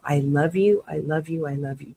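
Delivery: tender repetition dying away to almost nothing; fading self-affirmation. Shown as a demonstration. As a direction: let each I love you fade into a near-silent hush. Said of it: "just spend a, a minute just loving yourself".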